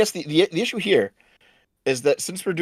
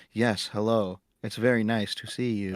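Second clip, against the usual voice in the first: overacted creepy girl. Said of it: "She almost overacts it".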